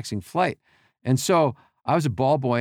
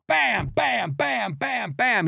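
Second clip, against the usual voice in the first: much higher, punchy imitated bangs; mock slamming noise; 9 semitones higher, much slower than usual. Storyteller imitating the quarterback slamming the handset, higher. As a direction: bang out each bam like a slammed phone.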